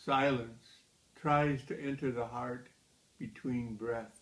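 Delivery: measured poem recital with deliberate pauses; poetry reading. Acted. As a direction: read the poem line by line, letting each phrase stand. Reads own poem aloud.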